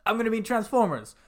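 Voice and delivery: lightly hammed movie hero pleading; mock Wahlberg. Retelling the scene, lightly mocking Mark Wahlberg. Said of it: "Marky Mark's like".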